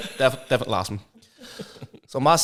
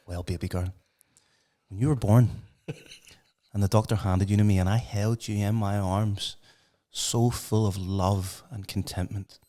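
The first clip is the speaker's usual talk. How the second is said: gently acted loving mum, lower voice; soft, slowing into sentimental warmth; tender mother; 4 semitones lower, 6 dB quieter, slower than usual. Mother tenderly explains name to Raindrop.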